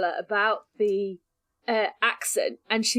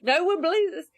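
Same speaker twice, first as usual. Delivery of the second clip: sceptical Anna; 5 semitones higher than usual. Retold or imitated. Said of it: "Anna's like".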